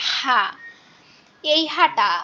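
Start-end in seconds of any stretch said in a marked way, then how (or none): 0.1-0.4 one হা through a constricted throat; squeezed-throat pronunciation. Shown as a demonstration. Teacher models how to read big ha, squeezed হা. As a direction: press হা from the middle of the throat. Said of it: "এভাবে পড়বেন".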